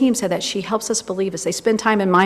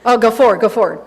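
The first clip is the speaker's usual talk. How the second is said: louder self-directed call; urging herself on through her notes, louder; yelling at myself; 5 dB louder than usual. Real, not acted. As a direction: bark the directions at yourself. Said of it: "I'm yelling at myself".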